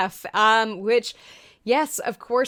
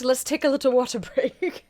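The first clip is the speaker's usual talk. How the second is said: put-on a light, jokey British accent on "water"; 4 semitones higher than usual. Pausing for a sip, joking in a light British accent. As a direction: slip into a playful British accent for the word "water". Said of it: "So apparently I'm British now".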